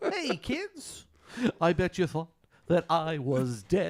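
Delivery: high laughing imitation of the clown; lightly voiced Billy Madison clown. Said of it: "Billy Madison".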